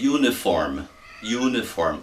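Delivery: "uniform" said with a Y glide, "you-niform"; english pronunciation of "uniform". Shown as a demonstration. Teacher showing students how "uniform" starts, clearly pronounced. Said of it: "tem um som meio estranho".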